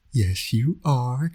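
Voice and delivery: slow, drawn-out coo rising at the end; baby talk. Acted. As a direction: stretch it out gently for the baby. Cooing to the baby son.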